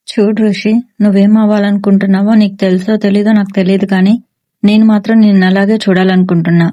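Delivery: a touch of an emotional father. Acted. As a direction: say it sincerely, like a father's hope for his son. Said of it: "అంత ఎమోషనల్గా చెప్పేసరికి".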